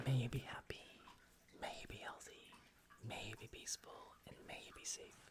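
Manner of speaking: hushed, evenly chanted well-wishing; loving-kindness blessing. Acted. Streamer offers blessings to viewers before funny voices, hushed recital. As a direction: recite it softly like a repeated meditation.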